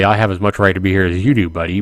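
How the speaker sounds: fast and cocky, tacking on buddy. Acted. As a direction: brush him off like a jerk. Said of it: "Tempted to be a prick and say".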